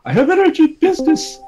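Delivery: high, loud urgent call; high shouting announcement. A narrator's reading. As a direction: yell it across the valley. Son calling urgently to father.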